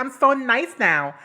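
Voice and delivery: high, slow, bored sarcastic drawl; a hint of a villain faking niceness; bored mock villain. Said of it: "she looked bored".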